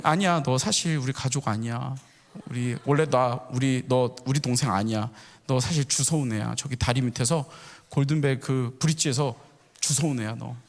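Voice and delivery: low, matter-of-fact mock revelation; deadpan teasing. Brothers insisting the youngest is not family, deadpan teasing. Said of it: "막 계속 놀리는 거야".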